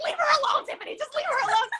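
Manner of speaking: high-pitched imitation of someone stepping in; retold pleading defence. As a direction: act out telling her off, high and urgent.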